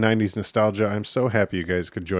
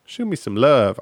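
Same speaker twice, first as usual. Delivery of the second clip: sultry plea, louder; 3 semitones higher, 6 dB louder than usual. Acted. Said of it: "I won't even talk like that again".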